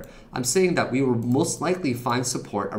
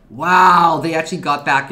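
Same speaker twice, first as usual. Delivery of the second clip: surprised; 5 semitones higher, 11 dB louder than usual. Real, not acted. Surprise at price bounce.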